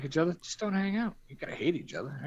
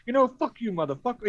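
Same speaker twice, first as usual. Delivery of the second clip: mock angry; 10 semitones higher than usual. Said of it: "He got so mad".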